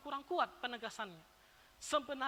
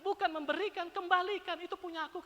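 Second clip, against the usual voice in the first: louder, higher stern rebuke as God; God reproaching people who withhold the tithe; voicing God; 4 semitones higher, 5 dB louder than usual. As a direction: speak as God scolding firmly. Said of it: "kata Tuhan".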